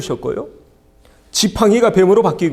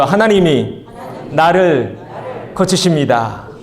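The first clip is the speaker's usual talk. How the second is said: stronger and louder, each word pushed out; louder repeat of the confession; 4 dB louder, slower than usual. Shown as a demonstration. Pastor urging the church to say it once more, louder. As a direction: call it out again, bolder. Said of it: "한 번 더요".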